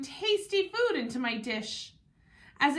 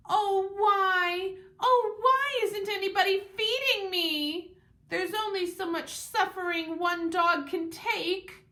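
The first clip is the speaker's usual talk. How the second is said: melodramatic moaning; 8 semitones higher than usual. A narrator's reading. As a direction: moan like a dog in mock agony. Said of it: "roll onto my back and moan".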